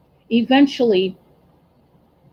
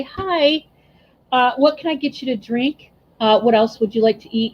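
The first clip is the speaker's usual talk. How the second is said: fake polite smile. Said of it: "put on that fake smile and say".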